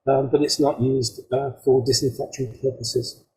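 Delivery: choppy connection, audio cutting out; breaking up over a bad line; breaking up space radio. Real, not acted. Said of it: "you're breaking up a little bit".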